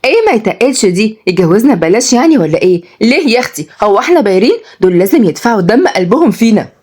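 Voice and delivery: indignant, lively-pitched retort; testy. Acted. Granddaughter insists suitors must pay dearly, testy. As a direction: fire back in mild outrage. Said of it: "ردت وعد بعصبية".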